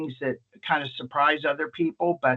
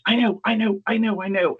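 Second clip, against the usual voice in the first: higher, eager mock whine; imitated weepy drunk; 5 semitones higher than usual. Drunk visitor agreeing with the doctor, mock-emotional. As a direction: repeat it like an overcome drunk. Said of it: "drunks can cry at the drop of a hat".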